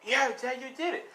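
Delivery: high, acted crying child's voice; tearful son. Son crying to his dying dad, high-pitched. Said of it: "And she's crying".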